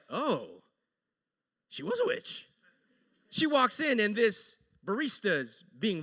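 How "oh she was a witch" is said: much higher, far-off silly voice; squeaky mock voice. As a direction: squeak it like a cartoon. Wife's thought voiced high.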